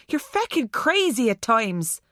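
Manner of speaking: put-on light Irish accent, exasperated. A narrator's reading. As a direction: say it with a Irish lilt. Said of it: "his Irish accent strong".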